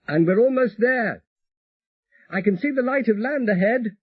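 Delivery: gentle apology to her love; voiced Elizabeth, tender. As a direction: Elizabeth greets her husband over the radio, tender. Elizabeth on radio.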